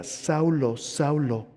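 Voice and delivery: lightly voiced divine call, slow question; voice from heaven. Jesus calls down to Saulo on the ground, lightly voiced slow appeal. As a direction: draw the question out slowly. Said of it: "oyó una voz que le decía".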